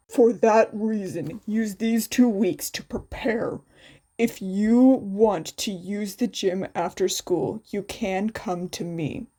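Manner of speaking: a hint of a low, level teacher; calm teacher's instructions, barely shifted; lightly voiced teacher. Teacher laying out the festival rules, lightly voiced.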